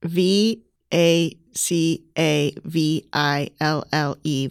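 spelling it out. Real, not acted. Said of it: "spell the word".

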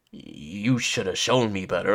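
slow, low mocking imitation of her complaint; lightly voiced complaining partner; mock whiny girlfriend. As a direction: drag it out like you're mocking her.

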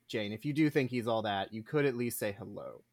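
low, soft talking-to; gentle reproach. Acted. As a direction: quietly reason with a stubborn friend. Addressing Jane in mild reproach.

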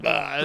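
low, aggressive grunt; Snake. Retold or imitated. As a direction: imitate a game hero's low kicking grunt. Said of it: "like, really aggressive".

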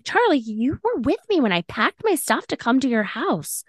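retold exasperation. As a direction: argue the obvious, slowing down at the end. Retells her exasperated argument with Charlie.

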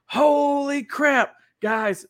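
high, slow, drawn-out amazement; excited vlogger. Retold or imitated. Friend filming a fishing video, gushing high and slow. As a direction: hype it up for the camera. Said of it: "he's like".

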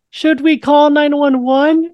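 high, slow, dopey mock voice; a teller aping a bystander's dumb question; mocking a clueless bystander. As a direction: play her as hopelessly clueless.

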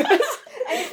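slow, drawn-out imitation of a friend; slow demonstration of her way of talking; imitating Emma's speech. Shown as a demonstration. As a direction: stretch the words in a friend's speaking style. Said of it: "speak like this".

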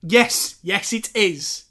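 loud, high cheer of yes; excited. Real, not acted. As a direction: celebrate the right answer. Dad gives the right answer.

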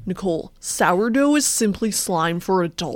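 mock-serious founder-style pitch; persuasive put-on voice. Co-host convincing her partner, mock-serious put-on voice. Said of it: "said it to you like this".

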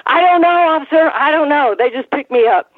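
high, playful English accent impression; Davy Boy feigning innocence to the cop, in an English accent; mock English accent. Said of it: "started in this English accent".

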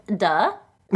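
put-on flat, dismissive teen duh; sarcastic duh. Shown as a demonstration. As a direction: say it like an eye-roll. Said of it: "in the parlance of the youth".

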